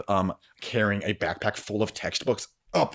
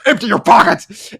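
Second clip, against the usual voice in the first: higher, loud threatening yell; mugger's shout; 10 dB louder than usual. Acted. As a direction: bark the demand like a young mugger. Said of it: "firing a gun at the wall and goes".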